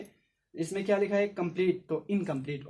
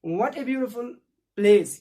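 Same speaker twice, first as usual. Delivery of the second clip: mildly excited exclamation; exclaiming; 5 semitones higher, 8 dB louder, much slower than usual. Shown as a demonstration. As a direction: marvel at the view. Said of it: "थोड़ा excitement के साथ". (हल्के उत्साह से)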